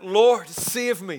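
slow, drawn-out plea; crying out. Acted. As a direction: call out for rescue. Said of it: "he cried out".

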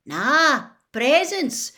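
high, loud delighted exclamation; excited discovery. A narrator's reading. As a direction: cry out at spotting presents. Spotting a pile of presents.

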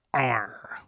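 slow hushed whisper. Acted. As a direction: breathe it out slowly. Dramatic rating aside.

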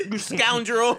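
loud, high theatrical British villain; hammy stage actor. Retold or imitated. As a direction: declaim it like a stage hero, laughing. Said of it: "like, mad British".

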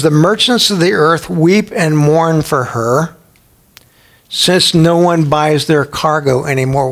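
slow, deliberate Bible reading; measured scripture reading. Acted. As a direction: read the verse out for the congregation. Reads scripture.

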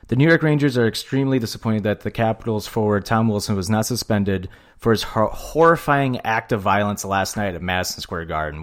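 reading a statement aloud. Acted. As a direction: read it out like an official press release. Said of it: "pull up the statement and read it".

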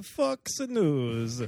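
drawn-out bad Italian accent; name the network as a halting Italian; mock Italian accent. Co-host answering what Italians call rap, mock Italian accent. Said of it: "say a network in an Italian accent".

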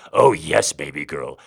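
loud grunt then dropping low. A narrator's reading. Daddy grunting to his baby girl, loud then low. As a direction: push out the oh yes, then ease off. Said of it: "Daddy grunted".

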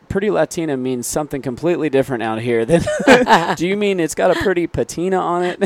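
laughing through the words, pitched high; can barely get it out for laughing. Retold or imitated. Telling the supplier what Pretty Latina means, laughing. Retelling his own reply, laughing.

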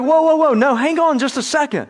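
put-on high, urgent "whoa, whoa" that halts the child; a parent rejecting a half-hearted sorry, firm and urgent; parent interrupting. Parent stopping a fake apology.

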